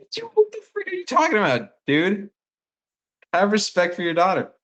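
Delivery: indignant high-pitched outburst at a dad; retold fuming. Telling off a drunk dad for insulting his daughter, retold fuming. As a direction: pitch way up, incredulous and scolding. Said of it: "like, fuming".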